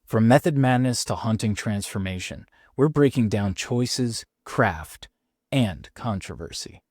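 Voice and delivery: measured, scripted show-opener voice; podcast intro read. Acted. Host teasing this week's Joker episode to listeners, announcer read. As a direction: announce the episode like a trailer, with spaced-out phrases.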